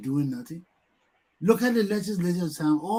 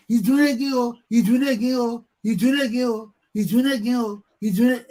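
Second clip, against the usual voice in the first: higher sing-song chant that fades; mock yelling; 3 semitones higher than usual. Crowd complaining he steals again, fading mock chant. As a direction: repeat it like a tired crowd complaint. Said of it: "You hear yelling".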